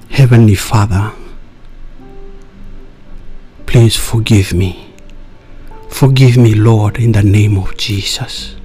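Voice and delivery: prayer. Real, not acted. Leads listeners in prayer.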